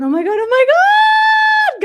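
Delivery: high, loud squeal of delight; real burst of excitement; excited shriek. Real, not acted. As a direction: scream with joy as the puppies walk in. Puppies arrive at the door.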